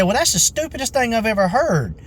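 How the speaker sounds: high-pitched mocking imitation of outrage; indignant customer. Retold irate customer in quarrel.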